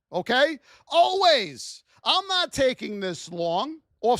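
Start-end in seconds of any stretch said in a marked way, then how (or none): 0.9-1.8 emphatic always. Real, not acted. One-word emphatic repeat.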